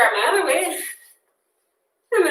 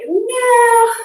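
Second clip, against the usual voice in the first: low back says no; 10 semitones higher, 5 dB louder than usual. Retold or imitated. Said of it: "my low back is like".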